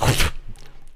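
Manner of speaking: breathy scornful laugh; scoffing laugh. Real, not acted. Mocking a pact rumour with a scoffing laugh. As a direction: laugh off the idea.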